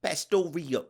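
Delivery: Pastoria said as pas-to-RI-o, Italian flavour; mock Italian Pastoria; Italian-ish accent. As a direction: roll Pastoria like an Italian word, ending in o. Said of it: "I'm going back to Italian".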